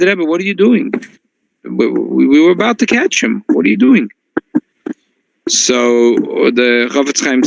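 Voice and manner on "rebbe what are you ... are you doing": disbelief. Retold or imitated. Crowd protests to the rabbi.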